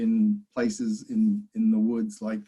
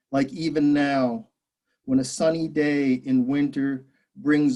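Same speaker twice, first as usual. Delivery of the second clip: measured poem recital with pauses between lines; deliberate phrasing, each line set apart; poetry reading. Acted. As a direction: read your poem to an audience, line by line. Reads own poem aloud.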